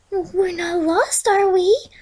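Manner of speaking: nervous pony fearing they are lost; worried. A narrator's reading. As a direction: ask it, hoping you're wrong.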